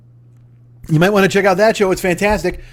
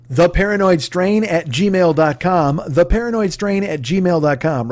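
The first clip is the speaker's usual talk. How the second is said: slow spelled-out address. Shown as a demonstration. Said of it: "repeated address".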